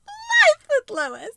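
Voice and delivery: Life with Lois squeaked high and slow; silly high retake. Shown as a demonstration. Flubbed retake, a goofy high Life with Lois. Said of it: "Try her again".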